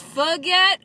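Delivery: "forget" spat out high and loud. Retold or imitated. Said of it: "spits it out".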